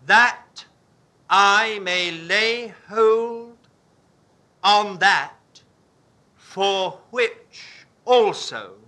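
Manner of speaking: very slow, word by word reading; slow deliberate reading. Shown as a demonstration. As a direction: read the verse out slowly, phrase by phrase. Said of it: "I will read it again".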